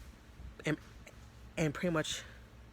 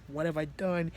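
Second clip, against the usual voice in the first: freaking out; 3 semitones higher, 4 dB louder than usual. Retold or imitated. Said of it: "was freaking out".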